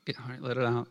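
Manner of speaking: understated acted fatherly acceptance; patient listening dad. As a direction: quietly let him vent. Imagined dad patiently nodding along.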